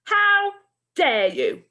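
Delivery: very high, loud scream of outrage; furious shout. Acted. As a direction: shriek it at the boys. Enraged teacher scolds fighting boys.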